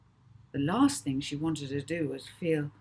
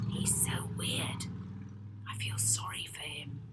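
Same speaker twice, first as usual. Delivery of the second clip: soft unvoiced whisper; Rocky whispering to Molly so Notman won't hear; 2 semitones lower, 6 dB quieter than usual. A narrator's reading. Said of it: "Rocky whispered to Molly".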